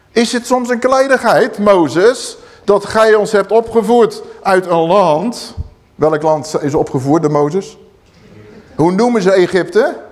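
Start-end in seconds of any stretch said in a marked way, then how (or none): 0.1-5.5 higher, slowed mock accusation; rebels accusing. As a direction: throw the charge at Moses. Preacher voices rebels accusing Moses.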